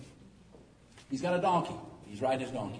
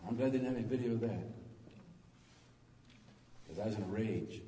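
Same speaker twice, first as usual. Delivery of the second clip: softer, faster, lower repeat under the breath; quiet aside; 5 semitones lower, 6 dB quieter, faster than usual. Shown as a demonstration. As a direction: toss it off quickly as a sheepish aside. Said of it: "repeats the line".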